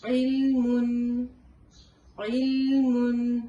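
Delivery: علم chanted very slowly and loudly, ain with an ee vowel; recited with ee sound. Shown as a demonstration. Teacher chanting علم to show ain with kasra. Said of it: "عین زیر ای".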